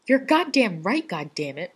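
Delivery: loud, high exasperated yell. A narrator's reading. Rodney yelling at John in the ER, loud. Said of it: "Rodney yells at him".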